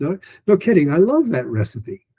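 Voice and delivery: quick run-through, no high on the first no; fast. Shown as a demonstration. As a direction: rattle it off quickly. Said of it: "try to do it like that fast".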